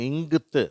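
இங்குத்து with ng leading into th; blended consonant sound. Shown as a demonstration. Teacher showing the sound four letters give, blended இங்குத்து. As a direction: join ng and th in இங்குத்து. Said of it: "அப்படிங்கிற உச்சரிப்பை தருகிறது".

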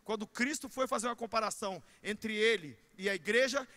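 ordinary delivery

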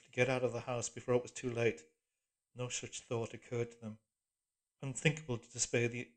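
usual speaking voice

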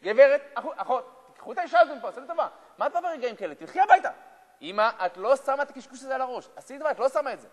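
loud, high, exasperated shouting at the stranger; angry children. Acted. Children yelling at the religious woman to leave, angrily loud. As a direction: bark them out of the room.

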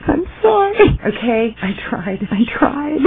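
whiny, tearful squeal jumping up high; mock tearful. Giving up on the accent challenge, mock tearful. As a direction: plead as if crying at your failure.

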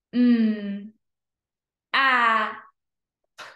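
M, a, p as separate letter sounds; sounded out slowly. Shown as a demonstration. Teacher pointing to each dot, M-a-p sounded out. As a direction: hum M, pause, then a, then p. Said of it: "read each word slow".

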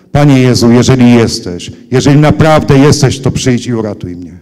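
loud retold plea to Jesus; a brother's loud cry for rescue, retold; calling out. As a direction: call out to Jesus, loud but not yet screaming. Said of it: "zawołał".

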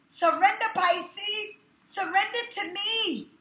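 voicing the lover. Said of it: "Somebody is saying to you".

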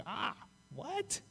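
taken aback, pleading innocence; shocked protest. Pretend. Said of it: "I'm like".

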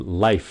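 "life" ending in an audible puff of F; clear final F. Shown as a demonstration. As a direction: finish "life" on a breathy "phờ" sound. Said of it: "I'm phờ". (nói "life" có âm "phờ" ở cuối)

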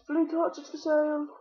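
playful, slow sales call; mock street seller. Mock selling of torches.

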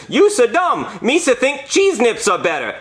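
high, goofy alien taunt; mock him like Jar Jar Binks, pitched high; squeaky Gungan-style insult; Jar Jar Binks mockery. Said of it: "this nerd dressed like Jar Jar Binks".

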